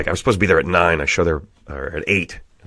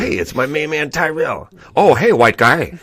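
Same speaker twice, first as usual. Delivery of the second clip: hammy greeting; 8 semitones higher than usual. Retold or imitated. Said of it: "Tyrell is here".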